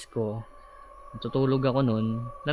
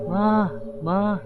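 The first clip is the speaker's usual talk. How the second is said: shouting for mom; 8 semitones higher than usual. Retold or imitated. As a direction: yell for your mother from the next room. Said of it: "Sigaw ko ng sigaw".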